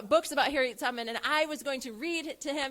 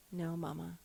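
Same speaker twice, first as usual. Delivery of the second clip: put-on small child answer; 7 semitones lower, 9 dB quieter than usual.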